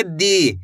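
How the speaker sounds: दी with held ई; drawn-out dee. Shown as a demonstration. Teacher repeating दी, drawn out. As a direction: stretch दी again. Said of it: "खींच के पढ़ेंगे".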